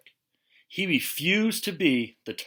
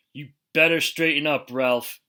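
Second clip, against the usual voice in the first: stern warning; 3 semitones higher, 5 dB louder than usual. Acted. Father warning Ralph after the dining table crash, stern. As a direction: warn him firmly.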